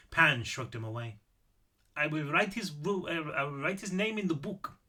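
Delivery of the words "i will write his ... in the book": lightly voiced old man with an Austrian accent; old Austrian man making a solemn offer. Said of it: "Apparently I am doing the accent".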